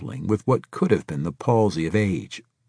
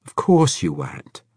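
placating; 6 semitones higher, 3 dB louder than usual. A narrator's reading. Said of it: "Braithwaite said placatingly".

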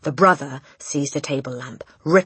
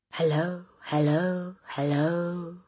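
parrot voice; 3 semitones higher, 3 dB quieter, slower than usual. A narrator's reading. Parrot voice from next room.

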